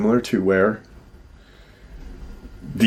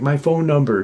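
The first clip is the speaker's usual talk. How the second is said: retold yell; 6 semitones higher than usual. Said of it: "He's like".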